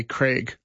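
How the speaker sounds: Craig with a short e, rhyming with Greg; American mispronunciation. Retold or imitated. Host reading out a listener's gripe about Americans, mispronounced "Craig". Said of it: "Americans who can't say the name Craig properly".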